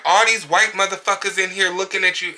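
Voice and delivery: high-pitched mock tirade; put-on high voice, mock outraged customer; mimicked outburst. Acting out client's outburst.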